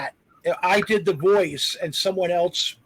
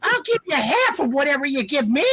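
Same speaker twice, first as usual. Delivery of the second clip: high, fast cartoon cat voice, pitched way up; squeaky sped-up giant cat purring threats; crazy cat voice; 9 semitones higher, 4 dB louder, faster than usual. Giant cat in a movie dub, crazy high cat voice. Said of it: "they want crazy voices".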